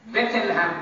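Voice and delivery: বেথেলহেম in the foreign bethelhem form; বেথেলহেম said as the distorted name; distorted pronunciation. Shown as a demonstration. Preacher showing the congregation the distorted বেথেলহেম. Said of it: "উচ্চারণ বিকৃত হয়ে যায়".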